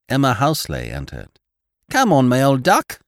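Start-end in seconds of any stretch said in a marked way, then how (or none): 1.9-3.0 called out loud and high; loud friendly call across the room; cry out. A narrator's reading. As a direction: greet her with a hearty cry. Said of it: "cried Polly Birkin".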